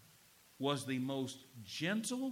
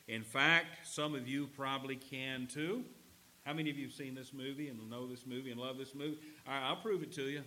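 normal talking voice

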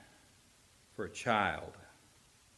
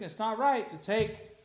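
Jesus declaring; 9 semitones higher, 4 dB louder than usual. Acted. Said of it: "I'm paraphrasing".

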